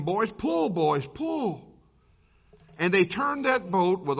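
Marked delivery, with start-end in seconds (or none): 0.0-0.7 loud, rising call to the rowers; urging call. Acted. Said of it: "he kept encouraging them". 0.7-1.7 loud urging with a falling close; urging call. Acted. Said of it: "he kept encouraging them".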